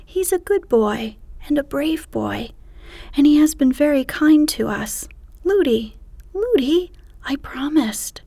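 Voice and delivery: put-on high, rising childlike plea; pleading princess. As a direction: beg the nurse, voice climbing.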